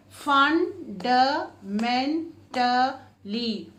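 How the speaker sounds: very slow, syllables pulled apart. Shown as a demonstration. Teacher modelling long word for children, slowly. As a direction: sound out each beat slowly. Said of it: "five and more than five syllables".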